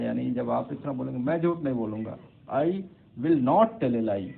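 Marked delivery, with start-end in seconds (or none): 1.2-4.3 blunt, louder. Shown as a demonstration. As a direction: state it bluntly, no softening. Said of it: "तो वो उतना अच्छा लगेगा आपको".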